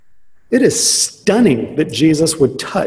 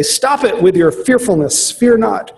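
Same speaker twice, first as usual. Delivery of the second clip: self-righteous rebuke; 6 semitones higher than usual. Retold or imitated. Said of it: "in a very self-righteous way".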